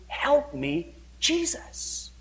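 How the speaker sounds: high, fading to a breathy plea; a weak cry for help; plaintive plea. Retold or imitated. Blind people crying out to Jesus, high and breathy.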